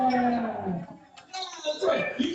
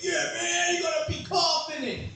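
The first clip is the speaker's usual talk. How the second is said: mocking dating guru; 4 semitones higher than usual. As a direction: play the pushy know-it-all advice bro. Mocking dating advice givers.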